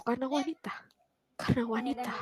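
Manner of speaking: soft, distant repeating voice; inner voice. Retold or imitated. Inner voice whispering to her, soft and distant. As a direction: echo it like a voice in her head. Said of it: "ada suara lagi".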